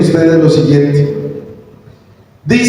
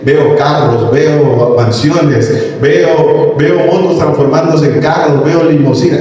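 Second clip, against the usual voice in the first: mock prophecy. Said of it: "eso me lo estoy inventando yo".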